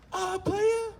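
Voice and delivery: very high mock voice, hesitant; squeaky mock passenger. The passenger asking the driver, in a very high mock voice. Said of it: "And I say".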